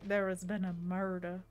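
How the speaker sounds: lightly put-on Southern accent; mock a genteel Southern drawl. Streamer quoting The Office, in a mock Southern drawl. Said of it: "Southern drawl".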